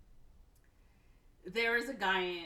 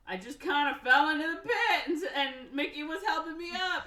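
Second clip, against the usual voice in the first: nervous fast lie; 10 semitones higher, 9 dB louder than usual. Retold or imitated. Timo nervously lies to Nasha.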